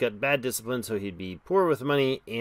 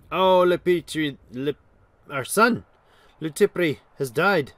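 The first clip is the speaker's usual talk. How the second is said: dismayed surprise; 4 semitones higher, 8 dB louder than usual. Real, not acted. Learning their heir has died.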